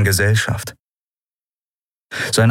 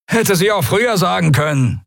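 higher rasping creature voice; a hint of a rasping beaked thug; rasping sneer; 12 semitones higher than usual. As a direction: snarl it out with contempt. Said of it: "schnarrte er".

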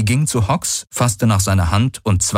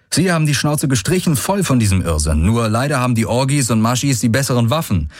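raised, fast, exasperated rant; Galen, bitter companion; 5 semitones higher, faster than usual. Acted. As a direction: vent quickly about the madness of war.

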